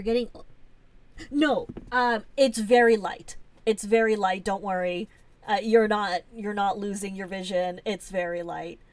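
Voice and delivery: quickly calm the viewers down; loud reassurance. Real, not acted. Streamer loudly assuring chat they are not losing their vision.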